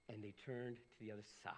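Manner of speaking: whispered, hushed and low; dramatic whisper. Real, not acted. Pastor telling the congregation how the crowd turned, whispered. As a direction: drop to a whisper for effect.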